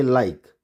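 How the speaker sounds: LIKE said as one syllable, ending on k; silent final e. Shown as a demonstration. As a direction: say "like" with the e left silent. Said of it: "यहाँ तक ही पढ़ेंगे".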